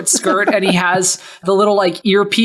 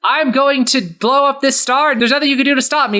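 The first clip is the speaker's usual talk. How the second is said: villain gloat; 6 semitones higher than usual. Acted. Soren gloats at the tied-up Bugs Bunny, higher villain voice. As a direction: crow that no one can stop you.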